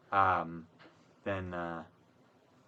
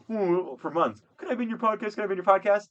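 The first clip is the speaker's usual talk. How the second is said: mock pleading; 9 semitones higher, 4 dB louder than usual. Mimicking a pleading person.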